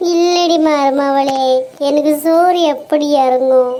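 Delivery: very slow hammed-up moan; mother-in-law moaning slowly; mock grief. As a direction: drag every syllable in fake sorrow. Mother-in-law keeps lamenting.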